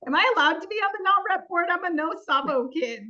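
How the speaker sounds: playful retold disbelief; mock self-doubt. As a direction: act out doubting you belong. Acts out own doubt about board.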